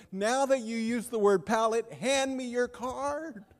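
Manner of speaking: playful mock-stern ribbing; mock demand. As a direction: poke fun at a friend. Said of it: "I said".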